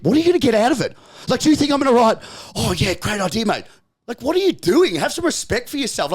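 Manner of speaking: an incredulous rant at negative commenters; exasperated rant. Real, not acted. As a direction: demand answers from the trolls, fired up. Ranting at online commenters.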